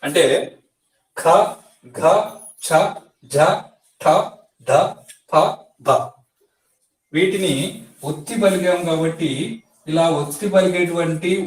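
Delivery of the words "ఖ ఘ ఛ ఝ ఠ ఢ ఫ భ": ఖ, ఘ, ఛ, ఝ paired and each pushed out with breath; aspirated letters. Shown as a demonstration. Teacher repeating aspirated pairs for pupils. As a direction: hit every aspirated letter with force. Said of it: "ఒత్తి పలికాను".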